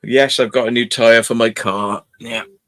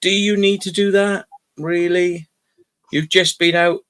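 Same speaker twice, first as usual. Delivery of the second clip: exasperated scolding; 6 semitones higher than usual. Retold or imitated. Owner scolding dog in car.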